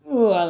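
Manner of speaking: short straining noise, imitated; imitated squeezing grunt. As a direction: act out squeezing hard. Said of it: "he starts squishing him".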